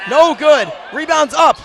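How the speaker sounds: urgent courtside sports call; excited play-by-play. Real, not acted. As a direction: call the scramble as the clock runs out. Live call as time runs out.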